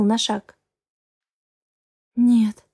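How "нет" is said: ordinary delivery, nothing marked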